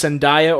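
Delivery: first Zendaya as zen-DIE-uh, second Zendaya as zen-DAY-uh; both pronunciations contrasted. Shown as a demonstration. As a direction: say Zendaya with "eye", then with "day". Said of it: "how to pronounce these performers' names".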